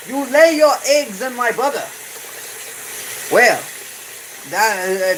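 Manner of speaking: high, theatrical mock warrior threatening a fly; mock fly-slayer voice. Streamer playing a fly-slayer threatening the fly in a high theatrical voice. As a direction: ham up a grand duel speech to a fly.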